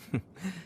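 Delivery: short, light huff of a laugh; brief chuckle to oneself; amused chuckle. Acted. Nobleman recalling an odd match-up in battle, amused chuckle.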